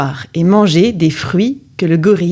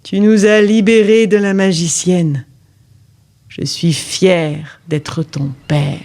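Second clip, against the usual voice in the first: tender father; slower than usual. Acted. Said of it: "dit l'homme".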